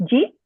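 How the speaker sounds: "Jeep?" as one slurred syllable for did you eat; casual slurred speech. Shown as a demonstration. Teacher demos sloppy everyday speech, slurred. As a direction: squash "Jeep?" into one quick question. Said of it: "I'm just gonna say something and I want you to just kinda guess".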